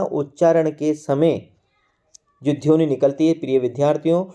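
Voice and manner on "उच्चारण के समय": उच्चारण के समय drawn out slowly, word by word; slow, deliberate repeat. Shown as a demonstration. Teacher slowly repeats उच्चारण के समय for his students. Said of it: "ध्यान रखना".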